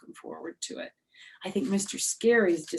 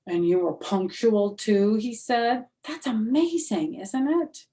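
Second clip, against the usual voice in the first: higher, louder mock praise; sarcastic teacher; 5 semitones higher, 6 dB louder than usual. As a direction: lay the sarcasm on.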